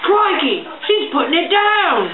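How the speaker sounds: mock Australian accent. Commenting on the kitty's move, mock Australian accent. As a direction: cry out like an Australian wildlife host.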